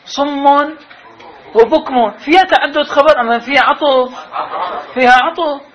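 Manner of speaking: a playful teacher's laughing challenge; amused quiz. Real, not acted. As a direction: chuckle as you quiz them. Rhetorical question with laugh.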